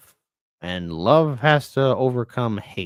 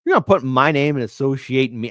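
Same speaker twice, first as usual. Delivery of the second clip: loud indignant high burst; mock flare of indignation; how dare you, reliving the insult; retold outrage; 4 semitones higher, 8 dB louder than usual. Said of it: "And I'm like".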